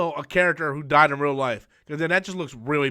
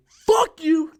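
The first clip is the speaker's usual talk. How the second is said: loud, high mock outburst; retold fuck you; 10 semitones higher, 6 dB louder than usual. Walking out of Homecoming, a loud high mock yell. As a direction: bark it at the screen.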